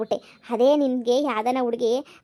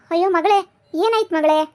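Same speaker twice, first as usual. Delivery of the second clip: wailing mother; 4 semitones higher, 5 dB louder than usual. Acted. Mother sees weeping daughter.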